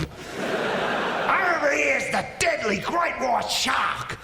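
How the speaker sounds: hammed-up wildlife presenter, high and slow; Steve Irwin. TV naturalist presenting deadly animals, hammed-up excitement. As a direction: build each creature up in a high, excited shout.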